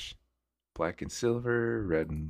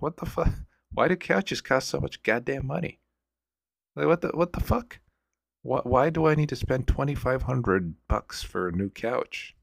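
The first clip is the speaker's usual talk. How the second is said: higher, incredulous rant about prices; exasperated rant; 7 semitones higher than usual. Retold or imitated. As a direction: throw up your hands at the price tag. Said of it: "and I'm like".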